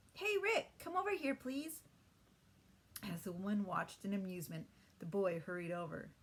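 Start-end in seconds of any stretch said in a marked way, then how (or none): 0.1-1.8 high, louder call across the store. Acted. Holly calls her brother across the store, loud and high. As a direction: call out to a boy across the room.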